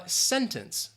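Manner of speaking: "sentence" said slowly and carefully; pronunciation demo. Shown as a demonstration. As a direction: model "sentence" clearly for learners. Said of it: "how do you pronounce the word".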